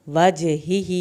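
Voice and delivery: وَجْهِهِ with a bounced qalqala on j; slow recitation with qalqala; echoing jeem. Shown as a demonstration. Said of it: "جیم کا قلقلہ کریں گے".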